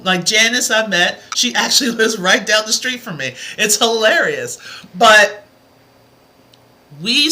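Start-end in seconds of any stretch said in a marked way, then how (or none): none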